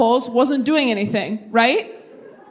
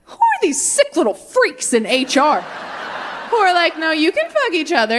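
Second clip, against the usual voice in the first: laughing outrage. Retold or imitated. Outraged comic rant about HR.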